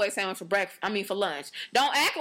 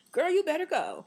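high, hyped praise; impressed girlfriend cheering; 8 semitones higher than usual. Retold or imitated. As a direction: hype her up, much higher. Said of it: "impressed cheer".

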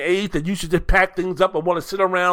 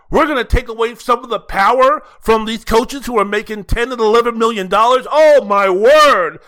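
louder, hammed-up sarcastic alarm; mock outrage; 3 semitones higher, 4 dB louder than usual. Podcaster mocking college football critics, sarcastic mock outrage. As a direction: parody the critics' panic, swelling louder.

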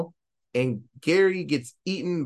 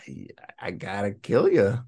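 breathy whispered threat; menacing whisper; 5 semitones lower than usual. Retold or imitated. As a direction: whisper it coldly, close. Killer pulls knife on Brenda.

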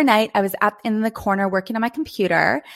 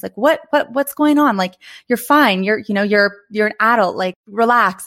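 scolding inner voice; 3 dB louder than usual. Retold or imitated. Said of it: "internal dialogue".

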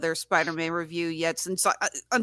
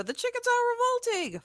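mock chicken voice. Quoting Chicken Run line.

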